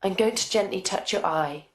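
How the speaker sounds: usual speaking voice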